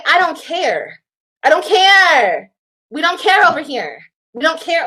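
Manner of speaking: emphatic and fed up; defiant. Real, not acted. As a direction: dismiss it emphatically, stretching the last word. Defiant outburst about the ex.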